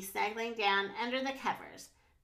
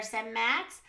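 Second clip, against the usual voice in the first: put-on children's story narration; 3 dB louder than usual. A narrator's reading. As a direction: read a picture book to little kids, animatedly. Reads picture book to children.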